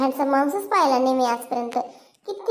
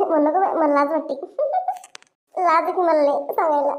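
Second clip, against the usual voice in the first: coy giggling. Acted.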